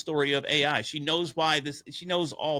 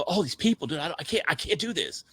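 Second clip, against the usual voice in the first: panicky plea; 5 semitones higher than usual. Retold or imitated. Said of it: "I go".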